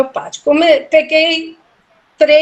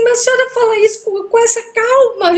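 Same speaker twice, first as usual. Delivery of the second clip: much higher, fast, incredulous question; can't believe how calm she is; amazed disbelief; 11 semitones higher than usual. Retold or imitated. Panicked caller amazed at calm. (espanto incrédulo, bem agudo e rápido)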